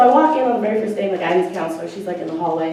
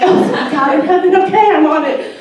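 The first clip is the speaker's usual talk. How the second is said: mock grateful; 8 semitones higher, 9 dB louder than usual. Her sarcastic reply to dad.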